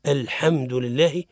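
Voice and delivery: الحمد لله with the "a" after ح leaning toward "e"; thin the vowel of ح in الحمد toward i; tilted fatha. Shown as a demonstration. Teacher shows a mistake in the ha, fatha leaning to kasra. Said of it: "جنوح الفتحة نحو الكسرة".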